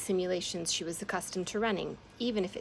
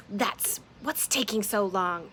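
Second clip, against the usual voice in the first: slow, louder snarl; 2 semitones higher, 5 dB louder, slower than usual. Acted. Moth snarling at Amelia over the lock, slow snarl. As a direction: snarl it slowly at her. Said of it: "he snarled at Amelia".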